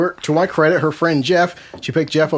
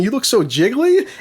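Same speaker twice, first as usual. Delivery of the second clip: slowed-down retold compliment; slow replay of a slip; slow motion; 4 semitones higher than usual. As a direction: draw it out as the blunder unfolds. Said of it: "it was in slow motion".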